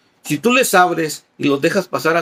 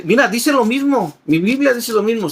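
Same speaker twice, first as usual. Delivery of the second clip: higher, insistent mock visitor; imitating door-to-door visitors; 9 semitones higher, 4 dB louder than usual. Visitors at your door insist their Bible says the same, mock-imitated. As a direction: mimic a persuasive caller at the door. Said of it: "te llegan a tu casa y te dicen".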